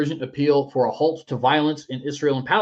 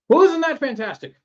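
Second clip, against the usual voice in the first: high, louder mock delight; mock gloating enemy; 12 semitones higher, 6 dB louder than usual. Al Qaeda reacting to America backing down, mock gloating. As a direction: play a pleased enemy, pitched way up. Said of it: "they'd be like".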